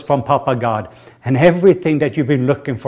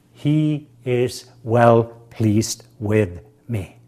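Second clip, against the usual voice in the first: slow, drawn out; much slower than usual. Shown as a demonstration. Preacher slowly drawing out a line for the congregation to repeat. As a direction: stretch every word very slowly.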